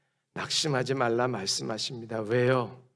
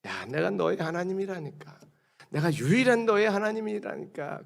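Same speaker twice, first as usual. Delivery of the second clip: wounded God insisting; 5 semitones higher than usual. Acted. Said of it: "자존심 상하시는 하나님이 또 하나 표현을 하세요".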